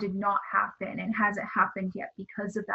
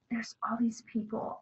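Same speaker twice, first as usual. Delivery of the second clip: whispered prayer; 6 dB quieter than usual. Retold or imitated. Prayer quoted in retelling.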